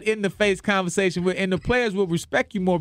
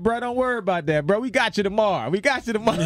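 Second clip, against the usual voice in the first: laid-back local; 4 semitones higher than usual. Retold or imitated. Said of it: "such a laid back".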